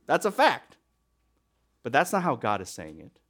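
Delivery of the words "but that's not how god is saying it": normal talking voice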